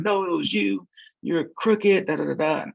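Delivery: high-pitched mock accusation; imitated angry customer. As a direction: pitch it up, retelling her cussing him out. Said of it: "And she just cussed me out".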